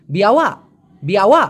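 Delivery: বিয়াওয়া with no final k, just a stop; Malay pronunciation. Shown as a demonstration. Teacher drills Malay বিয়াওয়া for students. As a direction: clip বিয়াওয়া short at the end. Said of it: "উচ্চারণটা হবে বিয়াওয়া".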